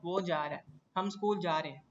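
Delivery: "जा रहा है" and "जा रहे हैं" run together; everyday contracted form. Shown as a demonstration. Teacher giving class examples of casual Urdu, "रहे हैं" contracted. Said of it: "हम क्या कहते हैं?".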